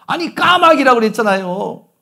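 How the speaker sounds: retelling the son losing his temper; angry son. Retold or imitated. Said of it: "아들이 화를 내면서". (화가 난 아들, 높고 큰 목소리로)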